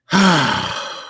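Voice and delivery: long, heavy sigh; exasperated sigh. Real, not acted. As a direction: let out a big fed-up breath. Exasperated by a stupid article.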